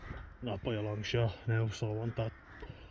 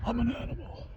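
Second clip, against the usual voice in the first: very high, goofy squeaky voice; silly high voice; 13 semitones higher than usual. Pretend. Joking to the camera about being an animal, squeaky and goofy. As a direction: squeak it like a cartoon critter.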